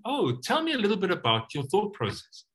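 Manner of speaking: gentle, curious invitation. Shown as a demonstration. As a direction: invite them to share. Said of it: "lands a bit softer".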